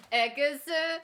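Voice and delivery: high, loud drawn-out scream; full-throated anime attack shout; battle cry yell. Acted. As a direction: swing a sword with all your might. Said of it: "big battle cry yell".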